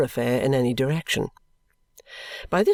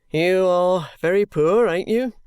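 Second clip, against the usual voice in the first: firm official voice, a touch slower; stern constable; 5 semitones higher, 5 dB louder, slower than usual. A narrator's reading. Constable lecturing the ragged boy, firm and official. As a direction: lay down the law like a Victorian policeman.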